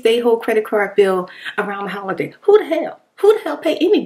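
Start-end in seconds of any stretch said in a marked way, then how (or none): 2.4-4.0 exasperated outburst. Real, not acted. Ranting about bill payers.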